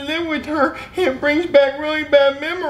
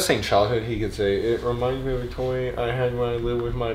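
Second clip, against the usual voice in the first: Jeffy voice; 7 dB quieter than usual. Acted. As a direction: drag it out like a dopey kid. Jeffy suggesting line in voice.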